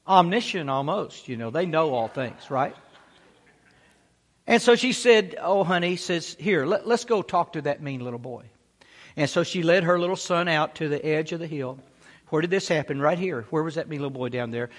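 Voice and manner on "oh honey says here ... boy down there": soothing mother. Acted. Mother soothes her scared son.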